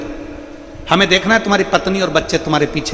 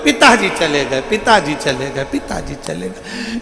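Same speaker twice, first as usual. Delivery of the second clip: mock wailing. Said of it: "बेटा रो रहा था".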